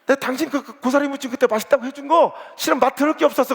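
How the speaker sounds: sting her with the truth; spiteful confession. Retold or imitated. Church women quarrel over cooking.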